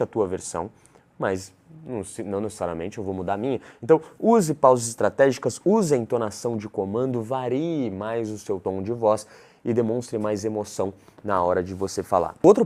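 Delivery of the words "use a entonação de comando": normal talking voice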